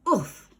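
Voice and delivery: short grunt of impact; oof grunt. A narrator's reading. Jemima catching Ned in her arms, a grunt. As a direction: grunt as the weight lands. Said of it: "she exclaimed".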